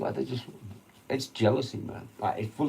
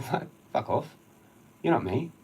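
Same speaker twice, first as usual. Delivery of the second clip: retold snap; 4 semitones higher, 4 dB louder than usual. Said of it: "I'm like".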